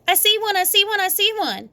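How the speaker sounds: high, eager cry; excited shout. A narrator's reading. Sheldon spotting a second egg, high excited shout. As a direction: spot another egg, thrilled. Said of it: "he shouted even louder".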